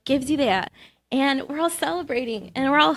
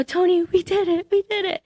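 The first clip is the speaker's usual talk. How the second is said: much higher, thrilled we did it; joyful announcement; 8 semitones higher than usual. Retold or imitated. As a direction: share the victory with your brother. Telling brother they won.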